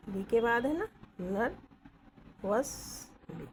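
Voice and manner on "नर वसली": वसली stretched slowly with a falling end; slow demo. Shown as a demonstration. Teacher drags the word out for students. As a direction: draw वसली out. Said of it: "नर वसली इधर आएगा".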